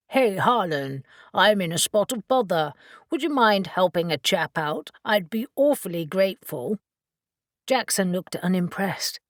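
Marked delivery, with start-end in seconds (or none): 0.1-1.0 mock English accent. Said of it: "adopted a mock English accent". 1.3-2.7 mock English accent. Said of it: "adopted a mock English accent". 3.1-6.8 mock English accent. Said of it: "adopted a mock English accent".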